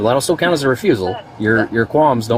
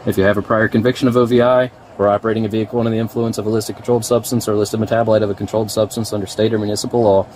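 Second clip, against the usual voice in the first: formal reading. Real, not acted. Reading the arrest notice.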